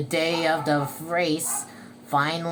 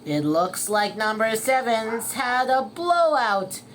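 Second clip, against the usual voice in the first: loud, slightly raised commentary voice; race announcer; 4 semitones higher, 5 dB louder than usual. Acted. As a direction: report the mishap to the stands. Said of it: "said the announcer".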